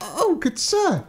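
high, slow, drawn-out plea; "Oh, good sir" stretched high and slow, begging; pleading cry. Acted. Frightened agent begs the giant, high and slow. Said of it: "cried the dividing agent".

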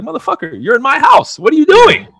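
outraged homeowner bellowing at a guest; furious shout. Retold or imitated. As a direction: roar him out of your house. Homeowner yelling at intruder.

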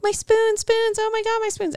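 very high, hammed-up Irish shriek; mock Irish lady crying out for her spoons; Irish accent wail. Retelling the spoon scene to friends in a high mock Irish wail. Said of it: "screaming in an Irish accent".

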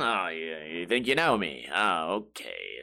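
a bad, hushed imitation of Hannibal; terrible Hannibal impression. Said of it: "That was a terrible impression".

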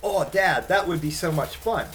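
son's eager, high-pitched yes; bubbling over like a little boy; excited kid. Retold or imitated. Son to dad about the tent night, excited. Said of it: "all excited about it".

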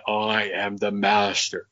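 low, slow imitation of her deep voice. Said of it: "she had this deep voice".

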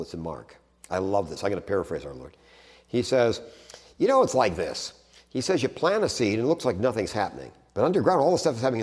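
ordinary talk, nothing marked

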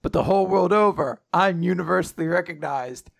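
mock-grand proclamation, climbing at the end; hammed-up self-praise; boastful hero. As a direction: declaim it like a vain hero, stretching the finish. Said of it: "Uh, he just says".

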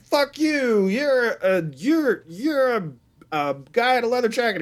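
high, heated mock insult; mock angry jock. Podcaster voicing a movie jock in a mock high-pitched rant. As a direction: hurl it like a hothead teen. Retold quarrel between movie characters.

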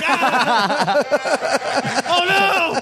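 high alarmed oh no, laughing; mock panic on hearing the news; alarmed cry. Retold alarm at friend missing.

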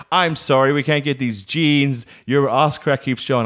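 lightly voiced mother refusing; imitated firm mum. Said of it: "And she's like".

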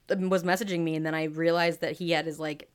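talking between burps; words broken by a burp. Real, not acted. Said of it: "man, I keep burping".

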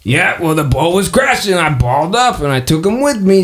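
high cheerful cat voice greeting the party; Marvin the cat. Acted. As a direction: purr it out, pleased to see old friends. Marvin explains.

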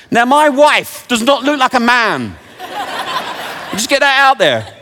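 high, loud laugh through the words; real laughter with a snort. Real, not acted. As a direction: break up laughing mid-joke. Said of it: "I snorted then, didn't I?".

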